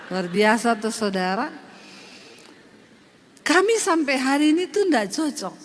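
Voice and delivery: normal talking voice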